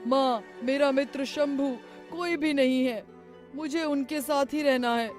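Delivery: high, loud pleading cries; desperate shouting. Acted. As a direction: shout for the holy man to free you. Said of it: "Ramu जोर जोर से चिल्लाने लगा".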